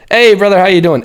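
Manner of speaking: high, loud hey brother; matching high energy. Shown as a demonstration. Coach matching an energetic client's greeting with enthusiasm. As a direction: meet their energy head on.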